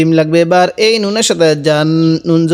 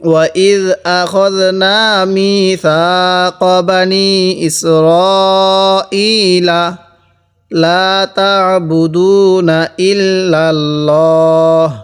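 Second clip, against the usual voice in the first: slow, sung tajweed recitation; Quran recitation; much slower than usual. Shown as a demonstration. Teacher chants the assembled phrase to students, slow melodic recitation. Recites full verse after spelling.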